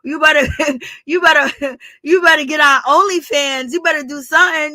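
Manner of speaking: mock yelling. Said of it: "He wanted to yell at Martell".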